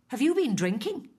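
high, haughty, disdainful question; snobby voice. Acted. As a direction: ask it looking down your nose. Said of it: "she asked in her snobby voice".

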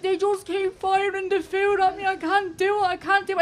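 a frazzled shopper giving up; panicked woman. Retold or imitated.

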